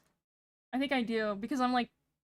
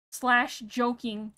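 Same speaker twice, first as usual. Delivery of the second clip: slow deliberate; much slower than usual. Shown as a demonstration. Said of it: "I had to do the Reddit".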